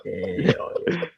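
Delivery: crying with laughter. Real, not acted. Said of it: "the speaker's lost it".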